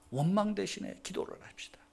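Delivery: hushed, breathy repeat of the same line; whisper. Shown as a demonstration. Preacher whispering the call to prayer to the congregation.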